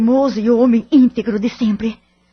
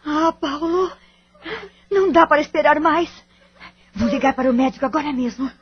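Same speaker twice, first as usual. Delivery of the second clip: urgent alarm; 5 semitones higher, faster than usual. Acted. Mother alarmed by daughter's pain.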